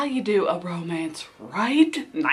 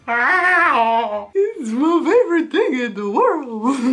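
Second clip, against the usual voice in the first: excited squeal; 4 semitones higher, 5 dB louder, slower than usual. Real, not acted. Gushing about favorite scene.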